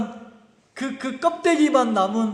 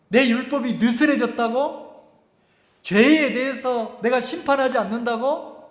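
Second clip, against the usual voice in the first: God's indignant retort; 2 semitones higher than usual. Acted. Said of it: "하나님이 뭐라고 합니까?".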